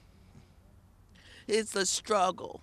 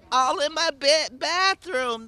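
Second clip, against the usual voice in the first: higher, louder, still worked up; upset listing; 6 semitones higher, 7 dB louder than usual. Real, not acted. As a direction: keep the anger going through the list. Tenant keeps listing complaints.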